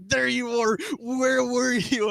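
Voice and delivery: high, relieved calling out; mock parents finding a lost kid; surprised call. Parents finding the lost child, high surprised call.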